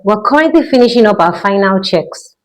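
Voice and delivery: calm cabin announcement voice; airline pilot announcement. Pretend. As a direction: speak like a pilot over the intercom. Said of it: "This is your pilot speaking".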